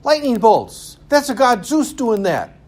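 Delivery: high-pitched, loud mock panic at lightning; hammed-up awestruck simpleton squeal; panicked primitive believers. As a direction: shriek theories like a frightened caveman. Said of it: "we don't need to say".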